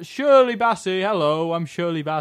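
tentative impression, lightly voiced singer; a hesitant try at the diva; a famous singer. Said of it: "How does the singer talk?".

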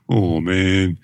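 playful groan of letdown; hammed-up, drawn-out dismay; mock disappointment. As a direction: sag like a let-down crowd. Mock letdown in alternating list.

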